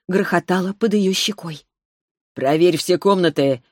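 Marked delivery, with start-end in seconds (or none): 2.4-3.6 commanding order. Acted. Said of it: "приказал Арис Лифтерио".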